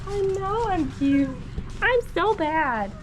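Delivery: high, slow foal voice; voicing the foal. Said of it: "voicing the foal's reply".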